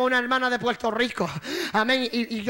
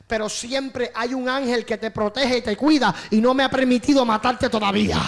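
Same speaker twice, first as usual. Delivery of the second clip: building into a demon's frustrated shout; 4 dB louder than usual. Retold or imitated. Demon admits failure to preacher, loud frustration. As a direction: raise it to an outburst.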